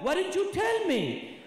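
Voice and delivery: indignant haggler. Retold or imitated. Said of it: "they always do that".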